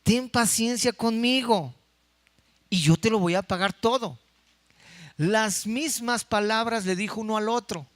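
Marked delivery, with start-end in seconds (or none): 0.0-4.2 slow pleading quote. Acted. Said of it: "en el versículo veintinueve".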